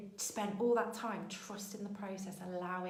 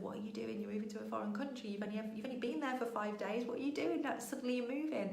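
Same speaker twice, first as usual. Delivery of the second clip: voice of fear; 4 semitones higher, faster than usual. Retold or imitated. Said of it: "I didn't allow the voice of".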